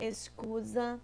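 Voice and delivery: Excusa again in Spanish, rising at the end. Shown as a demonstration. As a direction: show Excusa to the class. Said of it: "Olha lá, ó". (excusa pronunciado em espanhol, final subindo)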